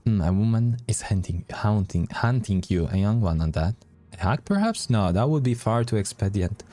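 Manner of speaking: brooding storyteller's musing; game master narration. A narrator's reading. Game master pondering the strange assassin, dramatic narration. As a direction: narrate the mystery with dramatic emphasis.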